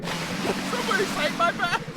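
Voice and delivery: heavy put-on Russian accent. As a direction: growl it like a Russian captain. Repeats in put-on voice.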